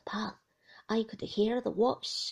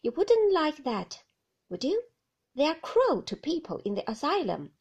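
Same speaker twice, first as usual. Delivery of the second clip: loud, menacing quoted woman; mock menacing woman, loud; Ben mimicking her; 5 semitones higher, 7 dB louder than usual. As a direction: Ben puts on her threat, much louder. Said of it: "she said".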